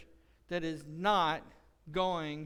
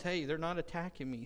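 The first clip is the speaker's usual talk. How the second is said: usual speaking voice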